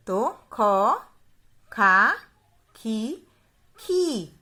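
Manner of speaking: क, का, की... each syllable spoken slowly and clearly, with short and long vowels kept apart; बारह खड़ी को साफ़-साफ़ बोलना; reciting barakhadi. Shown as a demonstration. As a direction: drill each sound of क like a teacher to children. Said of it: "उसका उच्चारण करके बताऊंगी".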